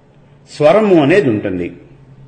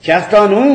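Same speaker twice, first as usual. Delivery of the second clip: చేస్తాను with an ironic lift; mocking చేస్తాను, really refusing; sarcastic stress; 4 semitones higher than usual. Shown as a demonstration. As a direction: say చేస్తాను so it means the opposite. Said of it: "అంటే "నేను చెయ్యను".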